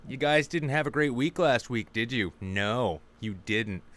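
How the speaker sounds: smug manager. Pretend. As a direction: scold the staff like a petty boss. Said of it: "So it's just like".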